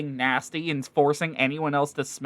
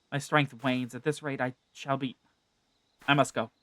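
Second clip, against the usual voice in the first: lightly voiced proud warrior, fading weaker toward the end; proud fighter losing strength; understated wounded hero.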